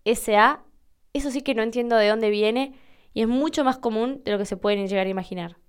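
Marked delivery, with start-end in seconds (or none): 0.0-0.6 each letter of P I C S A separate; spelled out. Shown as a demonstration. Host spelling the wrong form for listeners, slow spelling. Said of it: "como si fuera".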